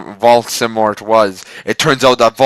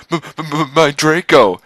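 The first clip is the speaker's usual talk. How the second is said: moaned; 5 semitones higher than usual. Acted. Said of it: "he moaned".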